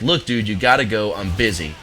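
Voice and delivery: annoyed mock yell through the door; retold yell. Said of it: "I had to yell at him".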